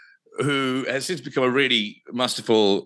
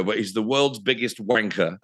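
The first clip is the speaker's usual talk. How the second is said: angry shouted insult. Retold or imitated. Michelle's angry answering machine message, shouted. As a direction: spit it out like a furious voicemail. Angry voicemail quoted on air.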